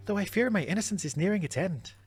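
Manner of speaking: put-on a failed Scottish accent coming out Irish. Seer confides fear about her visions, failed Scottish accent. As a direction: aim Scottish, slide into Irish lilt. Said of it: "can't do Scottish. Can only do Irish".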